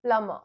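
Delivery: plumber with b silent, "pluh-muh". Shown as a demonstration. Teacher demos plumber for non-Hindi speakers, b silent. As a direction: say plumber as "plum-uh", no b. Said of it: "for those of you who do not know Hindi".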